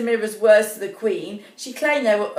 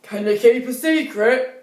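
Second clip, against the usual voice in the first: secretive dwarf; 4 dB louder than usual. Acted. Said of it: "said the eldest dwarf".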